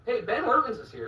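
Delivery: high, loud call through laughter; laughing call. Real, not acted. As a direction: shout it out cracking up.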